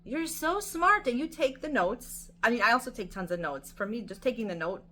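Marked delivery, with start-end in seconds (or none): 0.0-2.3 high, very slow gushing praise; admiring praise. Retold or imitated. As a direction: draw out the compliment slowly. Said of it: "I looked at her and I'm like".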